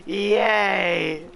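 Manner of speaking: gasping, high, squealing fangirl; excited anime fan. Retold or imitated. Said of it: "Senpai noticed me".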